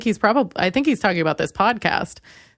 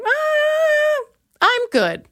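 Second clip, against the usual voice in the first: mock sing-song; much slower than usual. Acting out her mock reply.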